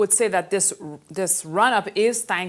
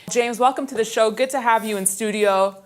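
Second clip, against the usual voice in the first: raised pitch TV greeting; pitched up like a news anchor; high anchor voice; 3 semitones higher than usual. Real, not acted. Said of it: "your voice was an octave higher".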